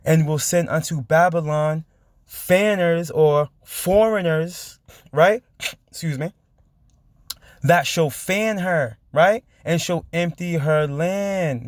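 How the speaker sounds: slow, drawn-out Bible reading; scripture reading. A narrator's reading. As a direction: stretch out each phrase of the verse. Reads scripture aloud between own comments.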